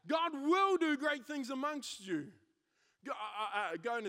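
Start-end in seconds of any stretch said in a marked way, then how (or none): 0.1-2.2 repeated at normal pace, still loud. Shown as a demonstration. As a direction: drive it home a second time. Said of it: "but know this".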